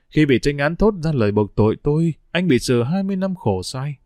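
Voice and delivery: a letter read aloud in a steady, reflective voice; lightly voiced letter from a weary prisoner. A narrator's reading.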